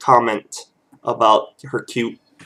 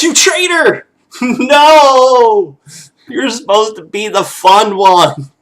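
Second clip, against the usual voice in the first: put-on very high, loud outraged kid wail; betrayed baby; 8 semitones higher, 5 dB louder, slower than usual. Baby realizing Dad wants him asleep, high loud outraged wail. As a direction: cry foul like a tiny betrayed child. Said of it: "It's like".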